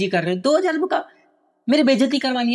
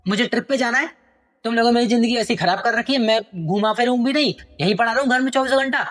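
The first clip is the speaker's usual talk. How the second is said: angry son; 3 semitones higher than usual. Acted. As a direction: rant about being stuck at home. Son yelling at father. (पिता पर भड़कता बेटा)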